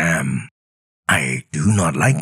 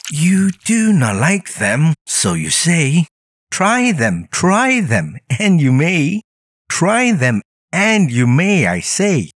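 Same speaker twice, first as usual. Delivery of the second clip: much higher, pleading and bouncy; insistent Sam voice; 12 semitones higher than usual. Acted. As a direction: urge him to just try them. Sam urging him to try.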